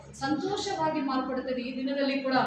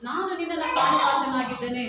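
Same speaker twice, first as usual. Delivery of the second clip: loud declaration; 5 dB louder than usual. Shown as a demonstration. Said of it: "ಏನ್ ಮಾಡ್ಬಿಡು?".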